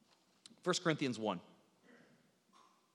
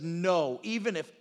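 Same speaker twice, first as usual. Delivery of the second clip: mildly emphatic refusal; 4 dB louder than usual. Retold or imitated. Peter protesting his loyalty to Jesus, emphatic. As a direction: press the denial with some force. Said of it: "He says emphatically".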